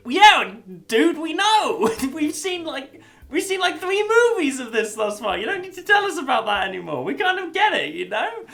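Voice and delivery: high, loud exasperated whine. Pretend. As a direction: whine it, fed up. Mock annoyed audience reaction.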